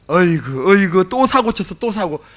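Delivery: nagging that builds to a loud, high shout; tut-tut then blow up at the troublemaker; mock mother berating her son for another mess; imitating a scolding mother. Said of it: "또 한마디 합니다".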